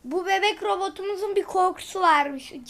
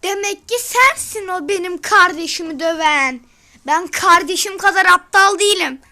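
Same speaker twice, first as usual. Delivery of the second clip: louder tough brother voice; a hint of a menacing big brother; big brother threat; 6 dB louder than usual. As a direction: square up to the genie, loud. Big brother confronts the genie.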